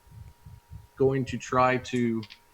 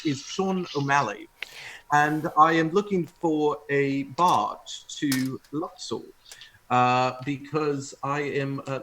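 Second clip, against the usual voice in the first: fake British accent; 3 dB quieter than usual. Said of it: "he's trying a British accent".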